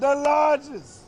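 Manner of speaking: slow, drawn-out emphasis; stretched out. Acted. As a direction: stretch every syllable for fun. Slow drawn-out call-and-response.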